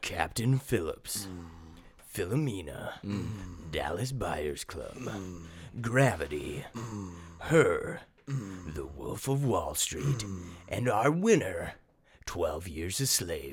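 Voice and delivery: put-on sensual sexy voice, low, soft, sultry. Reading the Best Picture nominees and winner aloud, in a sexy voice. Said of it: "Did you like my sexy voice?".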